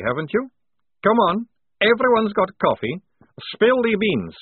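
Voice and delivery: deliberate threat building to high, loud demand; coffee-crazed interrogation, rising in pitch and force; manic Maledict, menacing. Acted. Maledict demanding coffee from two cavalrymen, menacing.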